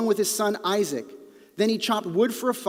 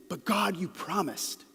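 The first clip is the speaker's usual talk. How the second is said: firm, slow, falling declaration; emphatic statement; 5 dB quieter, slower than usual. Shown as a demonstration. Preacher showing a firm statement of faith to God. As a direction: state it as settled fact. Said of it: "say it as an emphatic statement".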